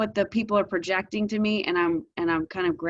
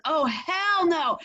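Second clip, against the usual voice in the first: imitating son's refusal; 8 semitones higher, slower than usual. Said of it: "he goes".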